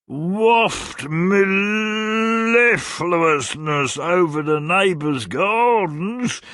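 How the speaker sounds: high, very slow, swooning cry; lovesick old gentleman. A narrator's reading. Old gentleman wooing Mrs Nickleby, swooning. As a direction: croon it like a mad suitor.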